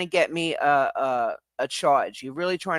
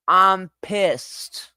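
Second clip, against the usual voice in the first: angry repeat; 3 semitones higher, 3 dB louder than usual. Real, not acted.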